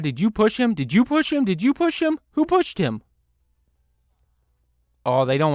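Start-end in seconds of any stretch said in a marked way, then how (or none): 0.0-3.0 each question higher and higher; rising disbelief. Real, not acted. Gamer grills the villagers about the push, climbing pitch. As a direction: build up the accusation.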